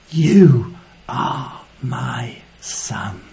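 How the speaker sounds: tender whispered affirmation. Shown as a demonstration. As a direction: breathe the words like a secret. Whispered Father's words.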